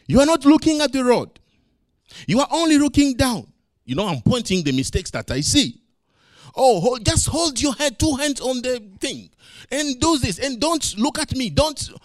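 nagging a son about his mistakes; lightly voiced dad teaching his son to ride a bike; correcting dad. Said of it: "I kept telling him what he was doing wrong".

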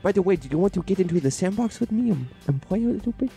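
put-on rising sweet little kid voice; baby voice. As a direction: play an excited toddler. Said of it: "I'm baby Neo".

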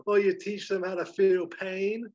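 high, loud, eager agreement; warming to it. Acted. Lucky warms to Ned's idea about the teacher, eagerly. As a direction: jump on the idea with relish. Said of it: "Lucky warms to this".

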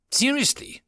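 high, startled "seriously"; surprised. Acted. Sergeant hearing bad news from his friend, startled disbelief. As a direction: jolt up in disbelief. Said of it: "widened his eyes in surprise".

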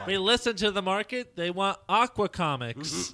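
laughing, high mock publisher; mock them while laughing; laughing mockery.

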